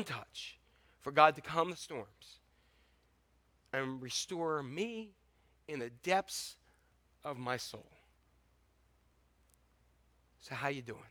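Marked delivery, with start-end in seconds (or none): 3.7-7.9 quiet, slow and tender; soft prayerful hush. Acted. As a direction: ease it down gently, as if praying. Soft prayerful close to reflection.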